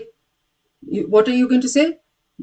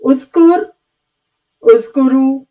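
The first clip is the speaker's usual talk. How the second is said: command drill; 3 semitones higher, 5 dB louder than usual. Shown as a demonstration. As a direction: call the command out to the class. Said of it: "So again".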